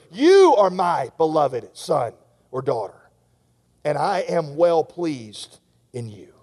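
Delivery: slow, steady voice of the Father; a lightly voiced fatherly declaration; God's blessing. God's blessing spoken over listener.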